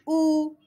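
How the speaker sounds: أو held level as "ou"; wrong O, as ou. Shown as a demonstration. Teacher showing what not to say, level أو as ou. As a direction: hold أو evenly as ou, the mistake. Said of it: "ما نقولش".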